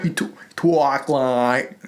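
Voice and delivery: slow, fumbled attempt at an actor's drawl; Matthew McConaughey. Host trying the actor's voice, slow faltering drawl. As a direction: stretch the words out, faltering. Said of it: "I'm trying to do".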